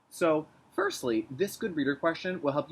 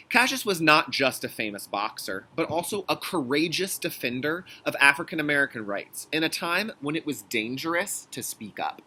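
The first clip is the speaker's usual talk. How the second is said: put-on reading to children. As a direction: read it earnestly for kids. Reads the picture book aloud.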